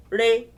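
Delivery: "Re" on a level middle tone. Shown as a demonstration. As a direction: say "Re" at ordinary speaking pitch. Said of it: "what are the three tones".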